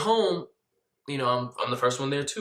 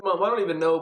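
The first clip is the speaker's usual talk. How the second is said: fake hysterical; 5 semitones higher, 4 dB louder, faster than usual.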